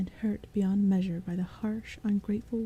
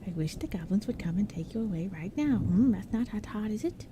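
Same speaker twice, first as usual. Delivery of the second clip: pedantic; 2 semitones higher than usual. Acted. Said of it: "Pedantically, he spelled it out".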